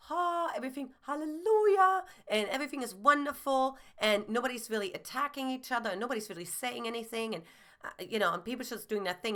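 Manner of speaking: mock sing-song cheer, high on hallelujah; fake cheerful household. Imitating a household's fake happiness, mock bright and cheery. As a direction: parody a family pretending all is wonderful. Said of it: "how one person said it".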